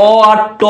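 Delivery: অ আট ট split into separate sounds, quickly; sounds broken apart. Shown as a demonstration. Tutor splitting অক্টাল into sounds for students. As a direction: break অক্টাল into অ, আট, ট. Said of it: "একটা আটের টান আছে না?".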